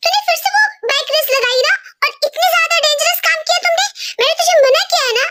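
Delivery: upset mother lecturing her son; angry mom. Acted. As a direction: tell him off for racing again. Mother scolds over bike race.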